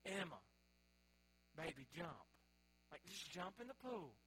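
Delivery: soft, gentle parental pleading; softly urging a little one along; coaxing a toddler. Retold or imitated. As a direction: imitate a parent quietly coaxing a small child. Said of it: "that's talking to a two-year-old".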